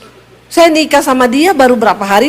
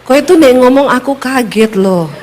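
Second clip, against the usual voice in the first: startled Solo husband. Retold or imitated. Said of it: "Orang Solo kaget".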